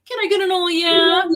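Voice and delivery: high, loud hype-up holler; rallying call. Retold or imitated. Actress cueing the whole crew in a prank, high rallying shout. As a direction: call it out like rousing a crowd.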